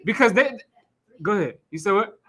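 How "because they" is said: half-laughing, a bit louder gripe; laughing complaint. Real, not acted. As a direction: laugh through the complaint about the noise. Laughing about being woken by fireworks.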